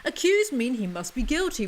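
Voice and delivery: talking through teeth; wired jaw. Real, not acted. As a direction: jaw clamped shut, words squeezed out. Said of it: "I'm talking through my teeth right now".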